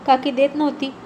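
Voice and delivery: plain reading voice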